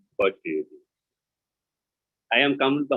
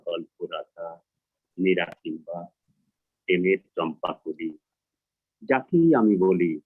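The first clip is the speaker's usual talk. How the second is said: poem recitation; 3 semitones lower, much faster than usual. Acted. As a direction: recite in short phrases, each line sinking at the end. Poet recites Bangla poem.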